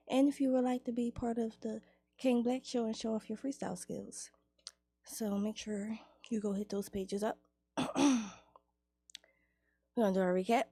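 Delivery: breathless, running out of air; gasping through the end of the promo list; out of breath. Real, not acted. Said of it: "I'm out of breath".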